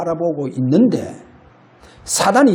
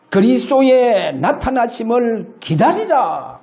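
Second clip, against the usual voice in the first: verse read slowly; 2 semitones higher, slower than usual. Shown as a demonstration. Pastor reading the verse to the congregation, slow and solemn. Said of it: "고린도전서 일 장 칠 절".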